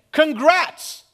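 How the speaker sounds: high, loud, cheery "Blessed" as a hello; loud greeting. Pretend. Pastor acts a Greek greeting, loud and high. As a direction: call it out like greeting a friend. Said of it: "Imagine somebody saying".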